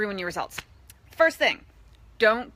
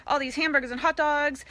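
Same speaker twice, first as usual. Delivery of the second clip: fast, higher mock-greedy rattle of foods; mocking the hungry guest at a barbecue, hurried and higher; 4 semitones higher, faster than usual. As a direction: rush the list like a starving guest. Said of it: "you'll be like".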